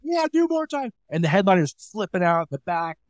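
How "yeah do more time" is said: high cheering crowd voice. Retold or imitated. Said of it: "the crowd's like".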